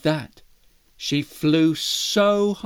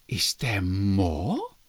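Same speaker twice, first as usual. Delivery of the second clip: mouse voice; 13 semitones lower, 5 dB quieter, much slower than usual. Acted.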